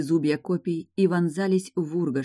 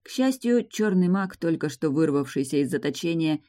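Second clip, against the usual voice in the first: usual speaking voice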